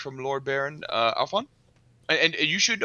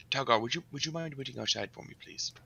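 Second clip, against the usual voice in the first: softly; 7 dB quieter than usual. Acted. Asks Talgar to wait.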